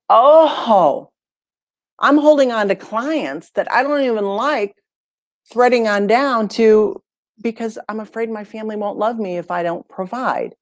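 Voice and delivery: a hint of emotional epiphany; dawning realization. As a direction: let it dawn on her, voice lifting. Client's realization retold.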